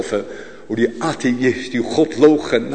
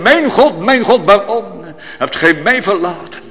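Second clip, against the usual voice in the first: anguished cry; 5 semitones higher than usual. Acted. Christ's cry quoted.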